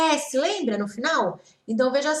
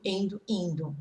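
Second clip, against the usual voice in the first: whispered aside; 4 semitones lower, 7 dB quieter than usual. Real, not acted. Teacher trailing off the suffix list.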